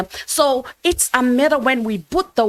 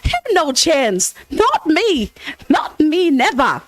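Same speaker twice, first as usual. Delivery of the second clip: higher, laughing, a mock-triumphant "not me, never"; defiant laughing retort; 6 semitones higher than usual. Pastor retelling how he brushed off covid, higher and laughing. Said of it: "It's like".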